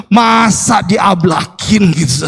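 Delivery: slow, exasperated retold scolding. Father scolding the helper over an open gate, annoyed. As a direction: stretch it out in mock exasperation. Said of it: "Saya mulai agak tinggi nadanya".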